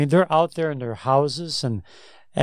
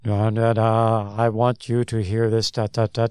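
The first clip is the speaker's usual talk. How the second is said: put-on flat droning old-time preacher; monotone voice; 3 semitones lower than usual. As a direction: drone it like a dull sermon. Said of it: "they spoke in a monotone voice back then".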